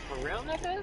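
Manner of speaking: high, sharp disbelief; incredulous challenge. Retold or imitated. Retelling how he challenged Broderick, high incredulous challenge.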